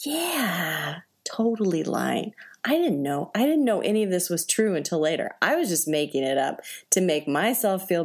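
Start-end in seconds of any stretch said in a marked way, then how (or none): 0.1-2.3 deadpan admission. Retold or imitated. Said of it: "I just looked her in the eye and I said".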